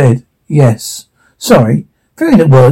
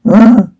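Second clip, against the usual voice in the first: short higher-pitched grunt; acted grunt; 6 semitones higher than usual. Narrator acts Snow White, grunting. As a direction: give a brief effortful grunt. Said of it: "Snow White Hood grunts".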